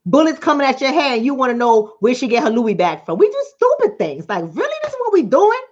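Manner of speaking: incredulous rant; exasperated. Real, not acted. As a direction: call out the absurdity. Frustrated rant, jumps high.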